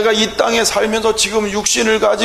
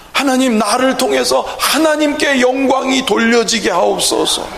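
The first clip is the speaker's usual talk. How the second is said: higher, fervent pulpit prayer; impassioned petition, pitched up and driving; earnest prayer; 4 semitones higher than usual. Shown as a demonstration. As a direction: plead with God in insistent rising phrases. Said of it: "얼마나 간절해지고".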